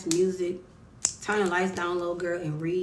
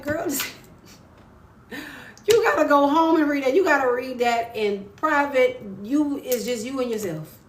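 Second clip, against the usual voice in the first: retold with laughter, higher and louder; laughing urging; 5 semitones higher, 3 dB louder than usual. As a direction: urge her laughing, pitch up.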